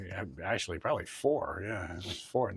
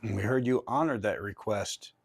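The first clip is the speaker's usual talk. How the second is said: addressing a spirit; 3 semitones higher, 5 dB louder than usual. Real, not acted. Addressing a ghost named Mert.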